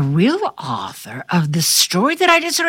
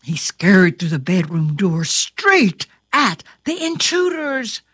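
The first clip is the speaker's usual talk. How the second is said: storytelling; 3 semitones lower than usual. A narrator's reading. Reads a story aloud.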